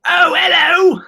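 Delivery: put-on high, loud sing-song greeting to a little kid; mock British hello to a friend's baby; hello to a child. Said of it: "I usually just go".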